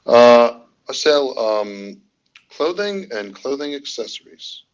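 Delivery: attempted Scottish that comes out British; amateur British accent. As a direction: put on a British accent, halting. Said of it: "so I just did British".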